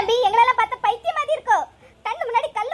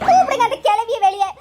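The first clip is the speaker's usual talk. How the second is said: loud indignant demand; acted angry call; angry summons; 3 semitones lower, 5 dB louder than usual. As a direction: demand they bring her out. Mother summons old woman outside angrily.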